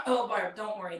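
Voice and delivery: lightly voiced soothing friend, patting her on the head; easy, dismissive comfort; mock reassurance. Friends brushing off Barb's worry about the players, in mock reassurance. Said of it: "everybody says".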